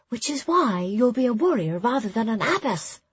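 murmured reply. A narrator's reading. Ara teasing Nona during the speech, murmured reply. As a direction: answer a friend in a lilting character voice. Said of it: "Ara replied".

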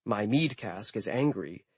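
soft, menacing with stress on mead; menacing whisper-threat. Pretend. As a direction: pretend ominous line, mead stressed and falling. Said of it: "I waited for him to say".

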